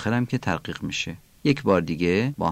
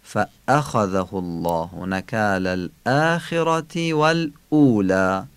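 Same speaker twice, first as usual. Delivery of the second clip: hamzas in فأخذه, الآخرة and والاولی each firmly struck; three stressed hamzas; slower than usual. Shown as a demonstration. Teacher reading the verse for learners, three stressed hamzas. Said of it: "سه نبر همزه داریم".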